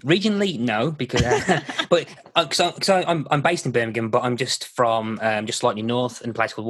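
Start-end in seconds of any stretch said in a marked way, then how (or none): 0.0-3.0 laughing it off, voice jumping higher and louder. Real, not acted. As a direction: chuckle through the words. Laughs off accent compliment.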